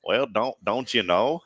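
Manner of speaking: attempted country accent; half-successful country accent. Shown as a demonstration. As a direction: try it with a country twang. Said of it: "now let's turn it country".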